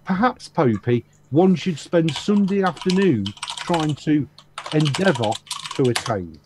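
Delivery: put-on Queen's English, halting between phrases; mock Queen's English. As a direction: ham up the Queen's English to answer a tease. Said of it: "I hope that's enough Queen's English for you".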